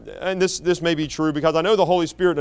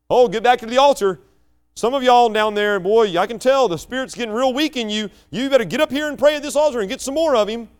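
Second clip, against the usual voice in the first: mock altar-call preacher; 5 semitones higher than usual.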